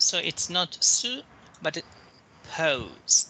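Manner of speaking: su light, pose stressed; teacher contrasts su and pose. Shown as a demonstration. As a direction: play down su, hit pose. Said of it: "that one is stressed".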